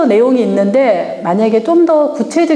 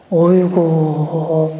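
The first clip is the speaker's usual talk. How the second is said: exasperated groan; 6 semitones lower, much slower than usual. Acted. Exasperated sigh word.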